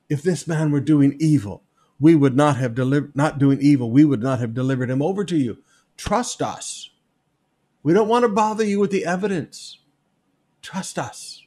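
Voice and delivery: a hint of loud, smug accusers; mock accusers. Preacher rereading the accusers' words to Pilate, mocking. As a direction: lampoon their confidence.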